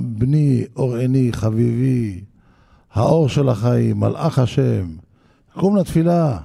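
gently coaxing, loving endearments; tender father. Retold or imitated. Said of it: "ככה מקימים את הבן".

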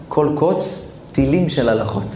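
thoughtful echo of the climax; reflective. Acted. Same phrase repeated reflectively.

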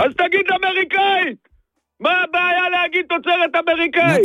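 high-pitched angry scolding; irritated outburst. Real, not acted. Seller scolding customer for omitting the machine's origin, irritated outburst. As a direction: demand it, completely exasperated. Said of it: "עצבני".

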